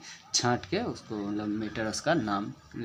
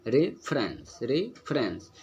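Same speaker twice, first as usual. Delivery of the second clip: रेफरेंस in separated beats, first syllable "रे" held; teacher's scansion of रेफरेंस, weight up front; stressed first syllable; much slower than usual. Shown as a demonstration. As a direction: linger on the opening रे of रेफरेंस. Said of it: "जोर दे के पढ़ रहे हैं".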